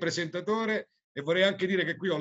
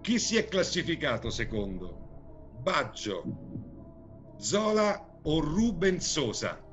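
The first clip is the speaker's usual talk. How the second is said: showy game show host. Acted. Quiz host reading question.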